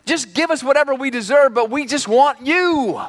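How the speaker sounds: mock pleading prayer. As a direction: plead with God like a repentant sinner. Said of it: "There's no".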